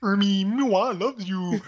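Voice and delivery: high, slow swooning diva voice; Miss Piggy voice. Retold or imitated. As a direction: coo it like a lovesick pig. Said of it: "this Miss Piggy, uh, impersonation".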